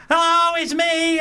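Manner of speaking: high, loud, slowly drawn-out announcement; milk it like a star greeting a fan; hammed-up showbiz delight; very showbizzy. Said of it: "she was sort of very show busy".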